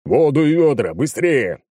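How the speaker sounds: loud urgent command; shouted order. A narrator's reading. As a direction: bark for water fast.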